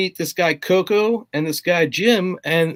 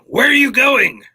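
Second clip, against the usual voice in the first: raised, high bandleader's yell, stretched out; Waddy calling out; 4 semitones higher, 4 dB louder than usual. Retold or imitated. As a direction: bandleader hollering after a runaway drummer, slowing down. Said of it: "Waddy will say things like at rehearsal".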